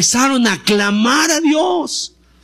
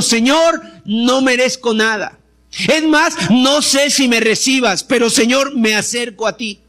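humble prayer. Acted. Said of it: "con humildad".

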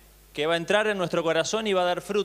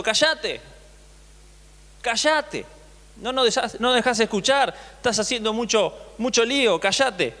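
mild mock scolding; 3 semitones higher than usual. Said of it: "la gente le gritaba diciendo".

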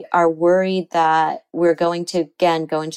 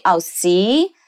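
louder, higher smug told-you-so; mock gloating; 4 semitones higher, 4 dB louder, slower than usual. Imagined partner gloating over being right, mock smug. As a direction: lightly act out a gloating partner.

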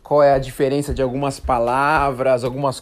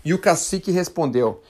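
story narration. Acted. Host reading a Brazilian legend to listeners, storytelling voice. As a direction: read the old legend to learners.

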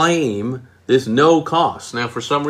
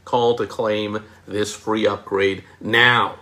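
slow model line; slower than usual. Shown as a demonstration. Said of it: "Just say".

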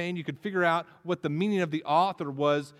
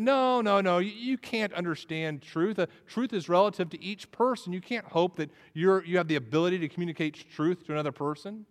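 raised, insistent mock objection; retold protest, pitched up and pressing; arguing student; 5 semitones higher than usual. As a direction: argue back emphatically in a higher voice. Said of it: "she began to argue with him".

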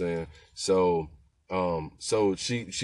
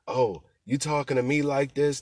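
high, indignant mock challenge; offended attitude; 7 semitones higher, 4 dB louder than usual. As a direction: play her as insulted and affronted, voice pitched up. Passenger offended by driver's tone.

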